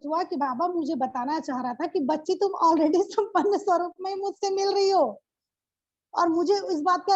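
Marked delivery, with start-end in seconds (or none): 2.0-5.2 a gentle higher fatherly voice with a laugh; lightly voiced Baba. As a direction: speak as loving Baba, lightly. Voicing Baba's words. (बाबा की हल्की सी नकल, प्यार से)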